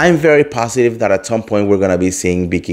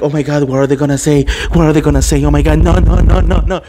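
mock panic; 4 semitones higher, much faster than usual. Reality star fretting to the couch, mock frantic. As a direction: cast members in a panic over what will be said, mock frantic.

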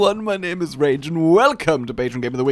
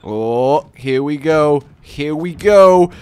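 rising anticipation; louder and slower toward the shot; building excitement; 7 dB louder, slower than usual. Real, not acted. Firing the cannon, building up.

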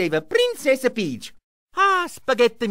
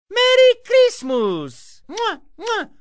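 ordinary delivery

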